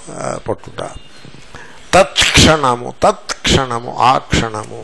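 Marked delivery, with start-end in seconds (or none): 1.9-2.9 తత్క్షణము as tat-ksha-na-mu; careful teacher's తత్క్షణము, cluster intact; pronunciation demonstration. Shown as a demonstration. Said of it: "ఉచ్చారణ ఎలా ఉంటుందో చెప్పడానికి చెప్పాను". 3.0-3.9 తత్క్షణము as tat-ksha-na-mu; careful model of తత్క్షణము; pronunciation demonstration. Shown as a demonstration. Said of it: "ఉచ్చారణ ఎలా ఉంటుందో చెప్పడానికి చెప్పాను".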